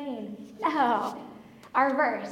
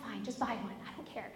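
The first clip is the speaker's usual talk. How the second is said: much softer, dismissive mumble; worn-down giving in; 3 semitones lower, 12 dB quieter, faster than usual. Retold or imitated. Annoyed wife gives in about the sectional, quiet and dismissive. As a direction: toss it away quietly to end the nagging. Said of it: "You ever get that way?".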